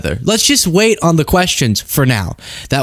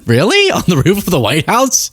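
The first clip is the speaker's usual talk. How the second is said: incredulous; 5 semitones higher than usual. Real, not acted. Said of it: "incredulous reaction to Trump".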